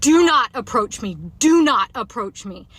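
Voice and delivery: forceful, drawn-out command; repeated retold yell. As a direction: re-enact the yell, firm and measured. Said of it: "I just kept saying it over and over".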